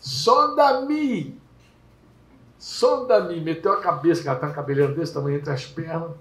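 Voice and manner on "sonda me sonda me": imitated cry to God, pitched up; higher, long-held prayer cry. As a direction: plead upward in a drawn-out call. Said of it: "gritou com Deus assim".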